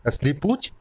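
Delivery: ordinary delivery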